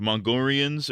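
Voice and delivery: "Mongolians" turned into "Mongorians". Shown as a demonstration. Streamer repeats his tic, "Mongolians" with R replacing L. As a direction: swap the L in "Mongolians" for R. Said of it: "replacing my L's with R's".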